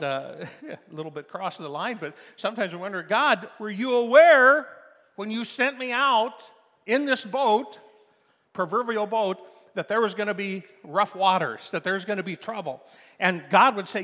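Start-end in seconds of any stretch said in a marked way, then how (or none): 3.0-12.8 loud pleading question. Acted. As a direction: cry out to God, asking if he knew. Pleading question voiced to God.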